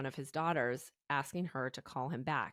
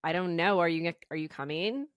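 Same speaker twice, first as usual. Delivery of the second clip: drunk Kardashian impression; 2 semitones higher, 8 dB louder than usual. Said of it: "And she's like".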